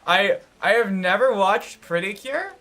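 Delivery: high, loud, slow emphatic claim; excited. Real, not acted. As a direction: declare it with gleeful emphasis. Eager fan confession.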